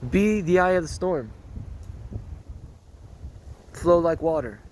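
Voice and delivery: hint of a calm martial-arts master's proverb; Grandmaster's wise saying. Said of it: "they say something like, ah, like this".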